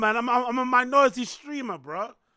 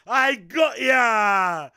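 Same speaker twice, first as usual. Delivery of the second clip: taunting shout; 5 dB louder, much slower than usual. Acted. Taunting chat.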